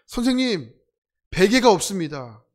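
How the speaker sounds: calling out a grievance to the teacher; whiny complaint. Retold or imitated. Griping student calls to the teacher at camp, mock whine. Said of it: "불평, 불만 친구들이".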